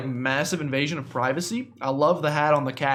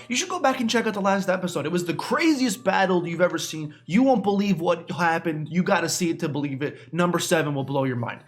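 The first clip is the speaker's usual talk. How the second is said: clickbait video narrator. Pretend. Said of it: "I should be hyping it up more".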